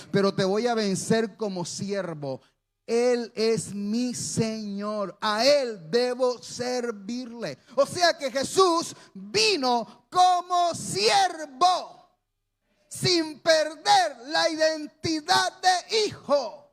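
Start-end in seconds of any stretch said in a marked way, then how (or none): 2.9-7.6 slow humble devotion. Acted. Jesus answering the devil, slow and reverent. 7.7-16.6 high, slow shouted proclamation; preaching shout. Real, not acted. Preacher to congregation, slow shouted climax.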